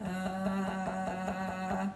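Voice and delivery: short low grunt like a gorilla. Shown as a demonstration. Teacher showing children the gorilla's grunt, a low grunt. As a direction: grunt as you thump your chest. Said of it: "fun to make a sound when you thump".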